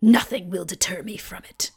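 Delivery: evil villain voice. Retold or imitated. Quoting Skeletor's speech.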